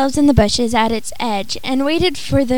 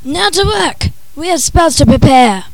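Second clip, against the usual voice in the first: commanding sorcerer; 2 semitones higher, 4 dB louder than usual. Acted. Sorcerer commands his magicians.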